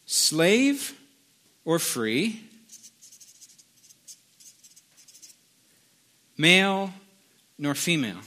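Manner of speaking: deliberate reading with weighty pauses; measured, spaced-out Bible reading; scripture reading. Acted. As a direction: read it out to the congregation phrase by phrase. Reads scripture aloud.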